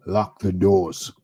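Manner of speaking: mock alien ordering the doors locked. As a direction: drag it out like a nervous alien. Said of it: "the other alien says".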